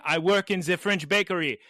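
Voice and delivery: lightly put-on French accent; French woman's accent. French woman explaining to a man, light French accent. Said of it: "After the woman saying".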